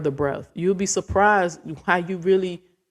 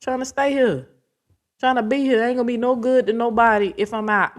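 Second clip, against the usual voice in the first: strained plea; 6 semitones higher than usual. Retold or imitated. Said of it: "Only thing I ask".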